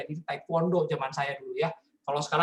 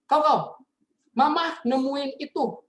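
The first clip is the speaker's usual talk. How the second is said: higher, louder, slow accusing mother; mom confronting; 8 semitones higher, 4 dB louder, slower than usual. Retold or imitated. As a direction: confront the son like an upset mom. (mama menegur anaknya, tinggi dan keras)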